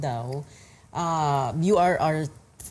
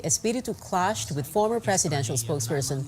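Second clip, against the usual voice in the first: measured TV news anchor delivery; news read. Acted. Anchor introduces clip of senatorial debate clash, news read.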